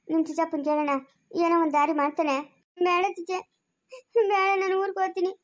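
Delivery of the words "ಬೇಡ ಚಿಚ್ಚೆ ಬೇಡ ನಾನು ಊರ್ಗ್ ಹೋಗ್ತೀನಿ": through tears, begging no; tearful refusal. Acted. Wife refusing her aunt's comfort, through tears. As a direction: sob out the refusal.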